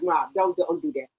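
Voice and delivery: low, soft mumbled brush-off; son's low mumble. Retold or imitated. Mother teasing, son mumbles quietly. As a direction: mumble it like an embarrassed teen. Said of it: "He's like".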